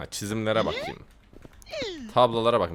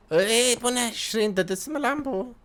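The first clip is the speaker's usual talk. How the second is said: high startled exclamation; şaşkınlıkla yüksek sesle; surprised; 11 semitones higher than usual. Real, not acted. Surprised at odd character. (şaşkın bağırış)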